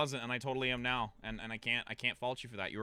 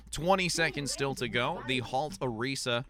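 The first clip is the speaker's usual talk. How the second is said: esports play-by-play. Acted. Caster calling Lunar Colony fight to viewers, play-by-play. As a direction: commentate the fight as it unfolds. Live match commentary.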